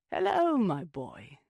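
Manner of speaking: greeting called across the yard; calling out. Acted. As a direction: call out warmly to the boy. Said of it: "Missus Sinclair called out to him".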